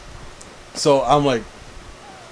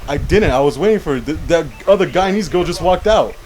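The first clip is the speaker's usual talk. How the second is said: a mildly louder, protesting retold complaint; retold raised voice; 4 semitones higher, 4 dB louder than usual. Customer protesting to the cashier that he waited his turn, in a mild retold protest. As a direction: push back like you're being wronged, not full volume. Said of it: "I don't need you to yell at me".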